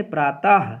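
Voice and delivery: "प्रातः" with the visarga voiced as ह; audible final h. Shown as a demonstration. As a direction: read out "प्रातः" as praa-tah, ending on h. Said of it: "इसमें आपका ह की ध्वनि".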